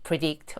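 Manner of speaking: "predict" stressed on its last syllable; stress on DICT. Shown as a demonstration. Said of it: "뒤로 주셔야 됩니다".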